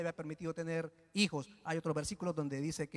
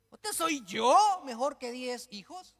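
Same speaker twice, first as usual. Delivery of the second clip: slow, loud cocky mock husband; 5 semitones higher, 6 dB louder, slower than usual. Elcana boasting to Ana, slow and cocky. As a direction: drag it out smugly. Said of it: "un poco chulesca".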